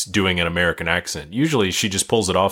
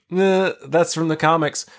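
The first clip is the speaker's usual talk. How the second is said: nerdy correction; 9 semitones higher than usual. Retold or imitated. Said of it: "I was like".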